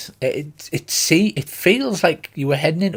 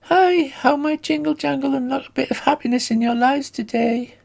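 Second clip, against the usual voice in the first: high, cheerful goblin voice; sweet high little goblin; 11 semitones higher than usual. Acted. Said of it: "She gives you a faint smile and says".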